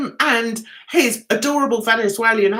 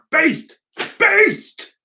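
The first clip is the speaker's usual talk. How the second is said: raised-pitch shout, held back in volume; mild mock shout; 8 semitones higher than usual. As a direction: call it out like a mock cheer. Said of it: "Just pop a fan and shout".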